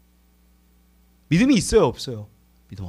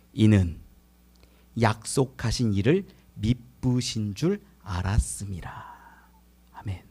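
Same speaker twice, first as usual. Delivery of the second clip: whisper; 12 semitones lower, 6 dB quieter than usual. Real, not acted. Whispered key verse.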